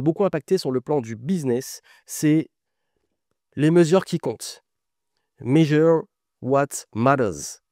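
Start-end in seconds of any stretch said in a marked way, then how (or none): 5.4-7.6 English title said with a thick French accent. Shown as a demonstration. Author naming an English book title, heavy French accent. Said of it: "Je prononce super bien avec mon super accent".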